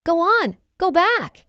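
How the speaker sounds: high-pitched, mildly angry order; storybook anger; infuriated. A narrator's reading. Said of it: "This infuriated Peter Pan".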